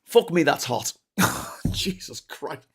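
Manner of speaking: talking with a burnt mouth; wincing from a burnt mouth. Real, not acted. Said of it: "Sorry, I just burnt my mouth".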